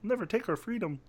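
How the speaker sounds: mock Scottish accent. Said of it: "That's the worst Scottish accent".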